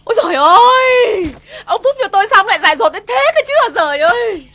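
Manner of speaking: lamenting. Acted. Wife laments husband's folly.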